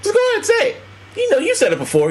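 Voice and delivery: high-pitched, coaxing dare; imitated insistent coaxing in a high voice; Samuel L. Jackson goading. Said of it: "Samuel L. Jackson was like".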